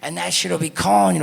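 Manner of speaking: high, hammed-up lecturing mascot voice; mock school mascot warning kids; preachy mascot. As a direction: warn the kids like a corny school-assembly act. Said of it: "He'd be like".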